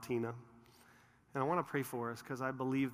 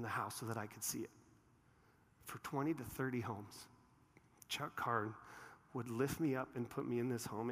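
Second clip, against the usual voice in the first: moved, softening; 4 dB quieter than usual. Real, not acted. I was in tears this morning.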